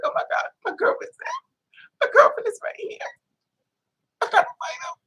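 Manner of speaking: very high breathy squeal; mock panic. Realizing his girlfriend is watching, squealing.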